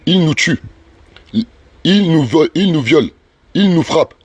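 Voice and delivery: slow, deliberate reading of a legal text; reading out charges. Acted. Activist reads the complaint against him to followers, slow formal reading. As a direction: read it out formally, phrase by phrase, with pauses.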